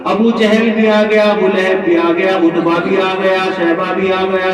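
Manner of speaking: full-force preaching. Acted. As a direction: declaim the story to a congregation, voice held up. Preacher retells story at full force. (پرجوش خطیبانہ انداز)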